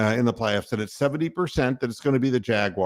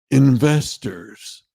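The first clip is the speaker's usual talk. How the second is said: "investors." drawn out very slowly and a little louder, as the smug guy's punchline; mock pitchman; 4 dB louder, much slower than usual. Host ending the smug investor impression, "investors." slow and drawn out. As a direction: stretch "investors." out slow like you're selling it. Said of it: "the goddamn guy who talks like this and says".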